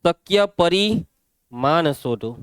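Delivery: slow reading, long break inside પરિમાણ after પરિ; split misspelt word. Shown as a demonstration. Teacher showing the class a spelling mistake, પરિમાણ pulled apart slowly. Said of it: "spelling mistake".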